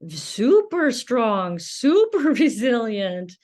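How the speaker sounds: smiling and laughing through the words. Real, not acted. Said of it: "I smile as I say that".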